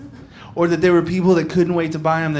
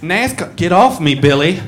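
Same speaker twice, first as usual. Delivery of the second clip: put-on drunk woman. Drunk woman shoving off boyfriend.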